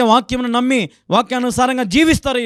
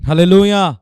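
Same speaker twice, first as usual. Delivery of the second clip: called-out hallelujah; 2 semitones lower, 6 dB louder than usual. Real, not acted. Preacher calls out to congregation.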